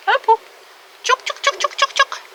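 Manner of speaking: high sing-song chook call; calling chickens. Real, not acted.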